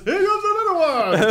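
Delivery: high, loud gleeful shout; shouted warning. Retold or imitated. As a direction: yell it out with glee. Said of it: "Bill goes".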